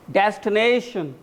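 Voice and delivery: Destination slowly drawn out on "na"; jaw-exercise pronunciation. Shown as a demonstration. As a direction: open the jaw wide on the long "na" of Destination. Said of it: "practice your jaw". (Destination में "ने" को खींचकर)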